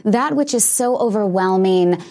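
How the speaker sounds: slow, deliberate explanation; slowly. Real, not acted. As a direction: take it slowly, word by word. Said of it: "put this slowly".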